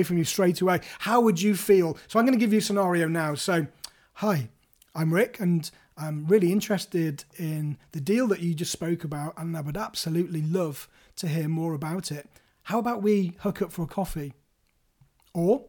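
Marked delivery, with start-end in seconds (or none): 4.1-14.3 late night DJ. Shown as a demonstration. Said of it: "late night D J".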